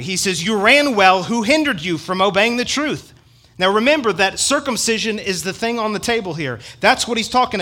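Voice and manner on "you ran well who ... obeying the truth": angry Paul. Retold or imitated. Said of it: "This is where he really gets angry".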